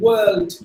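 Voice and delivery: "World" with no r, like wuhld; long central vowel in "World"; silent R. Shown as a demonstration. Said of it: "don't sound the letter R".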